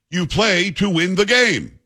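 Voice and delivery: quoting the coach's famous line, lightly voiced and slow; slow emphatic coach quote. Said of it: "who was the coach ... who said".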